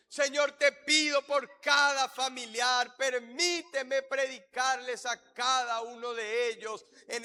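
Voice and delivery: slow, emphatic petitions; fervent led prayer. Real, not acted. Pastor leading prayer for family and friends, fervent prayer. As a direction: press each petition home for the church to follow.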